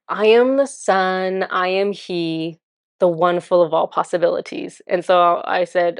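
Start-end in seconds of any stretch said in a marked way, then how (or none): 0.1-4.8 lightly pompous, slowed-down verse; conceited poem. Retold or imitated. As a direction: imitate a self-important poet, drawing it out. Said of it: "this is the most conceited poem".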